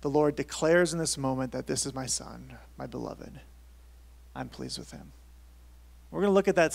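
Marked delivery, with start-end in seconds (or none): 1.6-5.1 softer and settled, trailing down; a father's quiet pride; tender declaration. Acted. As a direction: say it gently, letting it sink. Voices God declaring his son.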